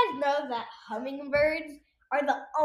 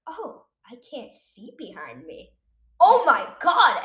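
dying words; 7 dB louder, slower than usual. Retold or imitated. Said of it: "another imitation of someone dying".

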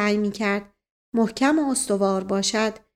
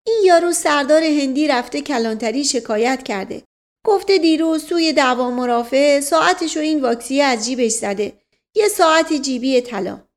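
lightly voiced servant, higher and louder; excited Mash Ghasem figure; 4 semitones higher, 5 dB louder than usual. Servant reporting a watch theft to his master, lightly voiced and urgent. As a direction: report the news in a raised, urgent voice.

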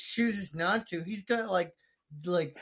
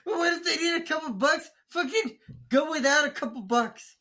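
mocking; 7 semitones higher than usual. Mocking a quoted line.

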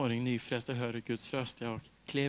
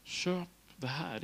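a slow, softer nudge from inside; soft inner prompt; 5 dB quieter, much slower than usual. Retold or imitated. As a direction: say it gently and slowly, as a quiet suggestion. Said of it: "så bara säger en helig ande". (långsam, mjuk maning)

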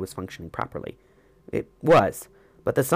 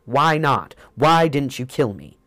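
sharp, loud, higher outburst near rage; snapping in frustration; 5 semitones higher, 6 dB louder, slower than usual. A narrator's reading. Frustrated priest snaps at the weavers who killed his companion, loud and higher. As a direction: bite the questions off in angry frustration. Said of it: "I snapped".

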